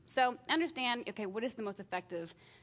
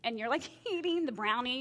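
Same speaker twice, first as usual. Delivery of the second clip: whispered laugh; 4 semitones higher, 4 dB louder than usual. Real, not acted. Caught sneaking brownie.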